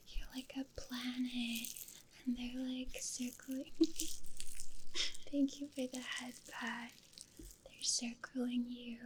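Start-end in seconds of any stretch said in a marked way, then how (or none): 0.1-6.9 hushed, close-mic ASMR talk. Real, not acted. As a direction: speak very gently into an ASMR microphone. ASMR livestream, talks softly throughout.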